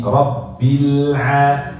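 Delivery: Rabbil with a bouncing lam; mock bounced lam in Rabbil. Shown as a demonstration. Teacher showing the wrong bounced lam. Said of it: "Lamnya jangan dikolkolahkan".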